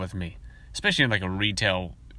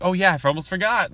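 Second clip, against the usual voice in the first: high, bright teacher voice; teacher cheerfully remembering homework; mock teacher; 9 semitones higher, 5 dB louder than usual. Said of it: "And she's like".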